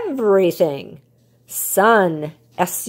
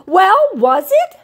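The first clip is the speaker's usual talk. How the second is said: calling out; 11 semitones higher, 6 dB louder, slower than usual. A narrator's reading. Rocket calling after the bird.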